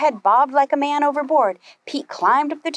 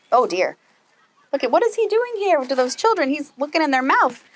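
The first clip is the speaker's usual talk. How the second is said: surprised reader; 4 semitones higher than usual. Real, not acted. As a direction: wonder aloud at the picture. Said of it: "reader reacts to picture for kids".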